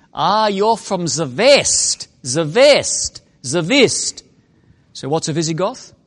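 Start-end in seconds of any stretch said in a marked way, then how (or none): 0.5-4.2 slow, careful put-on German accent. Joking that Visigoths were German barbarians, playing one: German accent. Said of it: "you're going to have a German accent".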